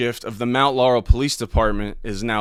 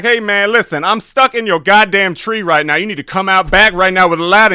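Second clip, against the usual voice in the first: much higher, loud, frantic stranger voice; prank caller Dewan; 9 semitones higher, 11 dB louder than usual. Retold or imitated. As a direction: panic like you're stuck in a tree. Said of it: "And I'm like".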